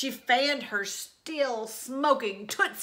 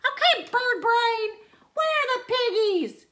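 high, loud bossy witch voice; demanding witch; 13 semitones higher, 7 dB louder than usual. A narrator's reading. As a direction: bark orders like a greedy witch. Witch bullying the chicken.

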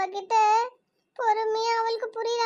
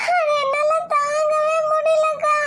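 tearful farewell; 3 semitones higher, 4 dB louder than usual. Acted. Younger sister crying to her elder sister at the wedding, tearful. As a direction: voice choking as she begs her sister not to leave. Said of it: "இப்ப எதுக்கு ரெண்டு பேரும் அழுதுட்டு இருக்கீங்க".

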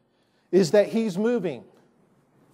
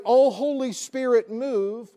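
mock entreaty, pitched up at the start; imitated pleading prayer; 3 semitones higher than usual. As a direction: implore as in a misguided prayer. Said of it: "You and I need to not pray".

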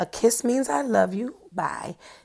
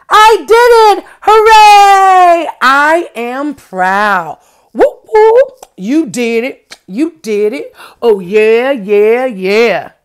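cheering; 14 dB louder, slower than usual. Acted. Teacher acting a child's proud cheer, loud and excited. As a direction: celebrate like you just won. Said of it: "A cheer means".

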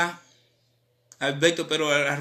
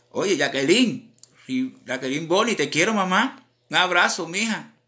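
loud shout-out; 3 semitones higher, 6 dB louder than usual. Real, not acted. Shout-out to Jacqueline on stream.

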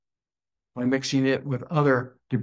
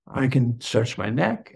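ordinary talk

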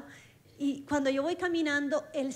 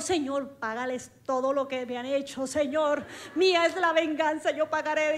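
mock vengeful prayer; 5 dB louder than usual. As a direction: parody someone praying for payback.

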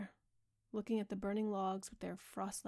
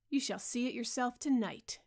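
loud, raised cry, pitched higher; cried out; 4 semitones higher, 7 dB louder than usual. A narrator's reading. Dorian challenging the painter, loud mocking cry. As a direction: fling the words out with mocking pride. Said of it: "he cried".

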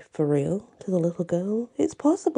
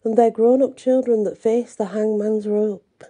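story narration. A narrator's reading. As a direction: read it like a fireside tale. Reads a ghost story aloud.

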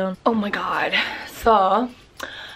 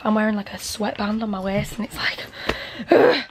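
out of breath; slower than usual. Real, not acted. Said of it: "I'm out of breath".

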